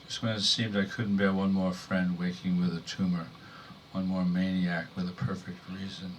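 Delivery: measured, restrained poem delivery; poetry reading. Acted. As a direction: read verse to an audience, pausing between phrases.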